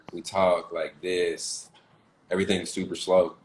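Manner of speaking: Southern drawl, very slow and stretched. Shown as a demonstration. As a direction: drag every word out like a Southern country boy. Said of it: "weird way we draw out the words".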